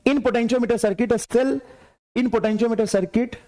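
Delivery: slow, deliberate dictation of the problem; reading the question aloud. Acted. Teacher reading a NEET question to students, slow dictation. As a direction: read it out word by word for the class. Reads exam question slowly.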